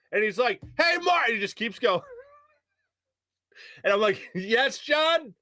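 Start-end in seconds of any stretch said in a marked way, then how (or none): 0.8-1.2 high-pitched mock holler; imitated yelling. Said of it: "it's still yelling". 4.3-5.3 awkward acknowledgment. Retold or imitated. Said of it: "trying to look away, but acknowledge".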